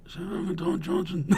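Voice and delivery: hushed, slow mock whisper; softly imitating whispered gossip; imitated whisper. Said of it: "like, whispering to each other".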